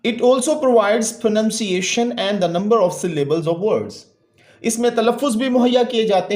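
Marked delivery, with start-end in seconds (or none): 0.1-3.9 slow, deliberate textbook reading; slow read-aloud. Real, not acted. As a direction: read it out word by word for a class. (ٹھہر ٹھہر کر سبق پڑھنا)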